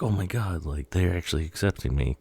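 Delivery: lightly acted delighted disbelief; excited. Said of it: "he's all excited".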